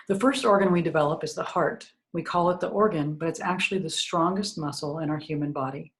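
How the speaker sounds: measured book-reading voice; reading aloud. Acted. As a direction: read the passage aloud to listeners. Reads from own book.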